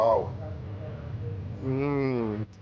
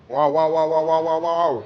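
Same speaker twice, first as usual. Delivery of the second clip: excited; 4 dB louder than usual. Real, not acted. Tasting cendol, excited wows.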